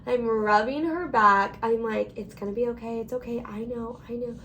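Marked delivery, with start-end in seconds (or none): 2.2-4.3 soft, hushed comfort for a sister in pain; calm her down gently, much softer; quietly reassuring a crying sister on the way to the ER; soothing reassurance. Retold or imitated.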